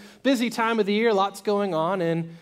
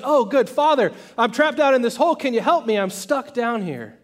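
raised, higher acted plea; calling for help; 5 semitones higher, 5 dB louder than usual. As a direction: call up urgently, easing at the end. Trapped man pleads to priest.

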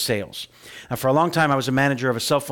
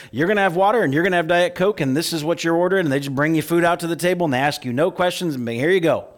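loud, higher, bossy mock waiter; pushy server; 6 semitones higher, 5 dB louder than usual. Mocking a server who orders for diners, loud and bossy. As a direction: bark the order at the table like a know-it-all server. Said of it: "the servers walked up and said".

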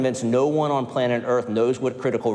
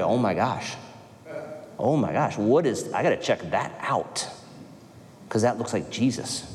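hushed, lower awe of a newcomer seeing unity; amazed onlooker; 4 semitones lower, 4 dB quieter than usual. Pretend. Pastor voicing outsiders amazed at the church, hushed awe. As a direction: gasp softly, like you can't believe it. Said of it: "they're gonna be like".

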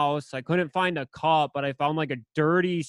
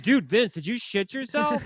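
mock accusation; 7 semitones higher than usual. Retelling friends' mocking accusation.

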